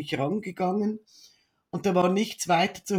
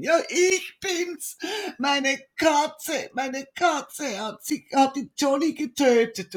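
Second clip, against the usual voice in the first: put-on high, slow, tearful child voice; a small child crying on the phone; imitating a little girl sobbing that her cat killed Johnny; 7 semitones higher, slower than usual. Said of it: "sie kann gar nicht sprechen vor lauter Weinen".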